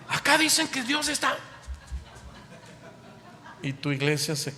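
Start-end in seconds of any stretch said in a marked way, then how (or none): 0.1-1.4 much higher, hammed-up eager call; preacher mocking believers who chase revivals, hammed up; mock excitement. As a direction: ham up the crowd chasing the anointing. Mocking hype-chasing churchgoers.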